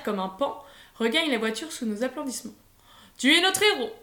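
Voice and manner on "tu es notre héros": higher, louder cheer. A narrator's reading. Uncle cheering his nephew after he moved the sheep, excited. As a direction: hail him as the hero, cheerfully.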